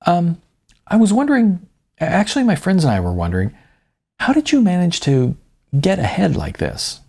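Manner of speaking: a trembling fan working up the nerve to ask; nervous young woman. Acted.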